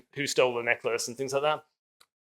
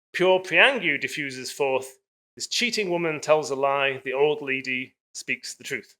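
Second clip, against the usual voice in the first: reading a passage aloud. Acted. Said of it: "I'll just read that little passage out".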